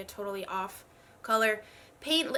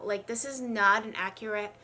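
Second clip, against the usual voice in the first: voice giving out; 8 dB louder than usual. Real, not acted. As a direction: push through a failing voice. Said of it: "Why do I always pick days where I can't speak".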